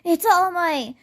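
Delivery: high, loud fanboy outburst; imitated starstruck exclamation; excited fanboy. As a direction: gush at spotting your idol. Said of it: "still, like, a fanboy".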